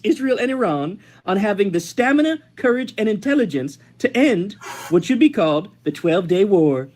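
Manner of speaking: measured, slightly lifted proclamation delivery; statement read-aloud. Acted. Host reads out the president's ceasefire statement, proclamation style. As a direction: read it out like an official blessing.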